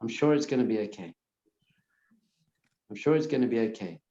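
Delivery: quick murmured reassurance to yourself; soothing inner mantra; calm self-reassurance. Shown as a demonstration. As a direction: tell yourself it's fine, briskly. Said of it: "you just say to yourself".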